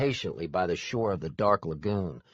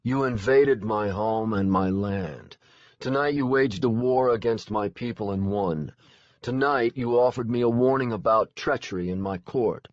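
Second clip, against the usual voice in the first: bored drawl; 4 semitones higher than usual. Acted. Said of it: "in a bored drawl".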